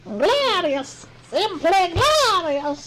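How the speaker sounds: high, slow mock Russian glorious; mock Russian accent. Joking about Russian voices, slow mock Russian accent. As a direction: savour it like a proud Soviet comrade.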